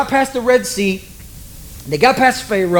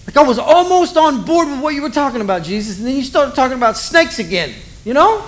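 higher, whiny exasperated complaint; mock exasperation; 6 semitones higher than usual. Nicodemus to Jesus about snakes, high mock exasperation. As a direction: play a fed-up listener, pitched up.

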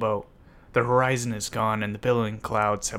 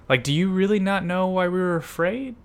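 high, loud disbelieving question; exasperated, pitched-up modern questioning; incredulous; 9 semitones higher, 5 dB louder than usual. Acted. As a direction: push back in comic disbelief. Simon challenges Jesus in comic disbelief.

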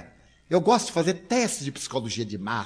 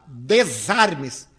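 slow, drawn-out, louder order; stern command; 3 dB louder, much slower than usual. Retold or imitated. Psychoanalyst ordering the nervous visitor, slow stern command. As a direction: spell it out like a clinical verdict.

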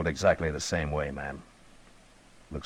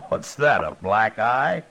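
shocked; 6 semitones higher, slower than usual. Acted. Shocked at black eye.

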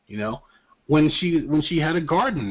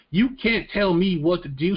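a rough, hammed-up southern accent, a bit higher; bad southern accent; 6 semitones higher than usual. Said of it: "My southern accent is terrible".

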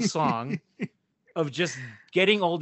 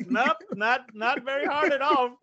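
mock snappy comeback; 8 semitones higher, 4 dB louder than usual. Retorting to the drunk uncle.

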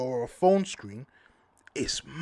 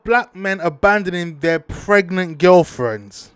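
reading out the tweet; 7 dB louder than usual. Retold or imitated. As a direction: read the tweet back in a stiff, official voice. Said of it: "He's gone".

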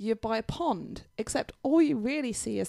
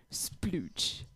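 splooge sound effect; 2 semitones lower, 5 dB quieter than usual. Retold or imitated. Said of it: "I like the sound effects going on here tonight".

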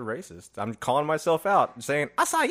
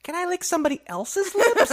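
laughing; 6 dB louder than usual. Real, not acted. Joking about record rules.

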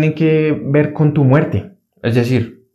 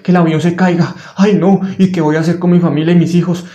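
panicky, higher fretting voice; mock panicky worrying; anxious inner voice; 3 semitones higher than usual. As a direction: voice the worried mind, half in jest. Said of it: "hay una voz en la mente".

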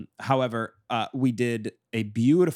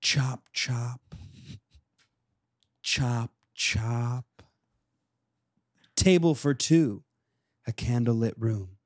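measured, pause-heavy poem delivery; slam poetry reading; slower than usual. Acted. Poet reading to the co-host, spaced-out slam delivery. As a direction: perform it as a mock-serious slam poem. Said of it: "Do you want me to do a reading".

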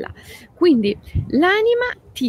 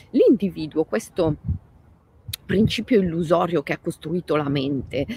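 ordinary talk

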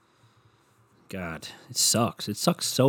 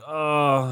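mock groan; 4 semitones higher than usual. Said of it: "I sound like I'm doing sex with".

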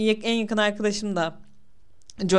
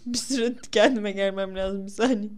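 after laughing hard; 3 dB quieter than usual. Real, not acted. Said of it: "kendi kendime krize girdim".

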